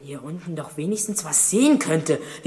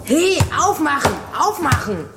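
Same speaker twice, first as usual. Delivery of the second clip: bang on the door and yell; shouting for help; 7 semitones higher than usual. Acted. Locked in cellar, shouting for help.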